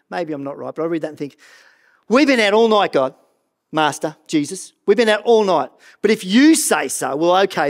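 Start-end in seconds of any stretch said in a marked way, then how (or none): 2.1-7.7 grudging, humouring the teacher; mildly sarcastic. Acted. Tired fisherman answering Jesus, a touch sarcastic. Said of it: "It's almost like he's being sarcastic".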